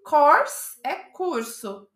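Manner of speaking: "Course" with an open o sound, like kors; course vs curse. Shown as a demonstration. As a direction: say "Course" as kors, not kers. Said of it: "tem que ficar esperto com essa pronúncia".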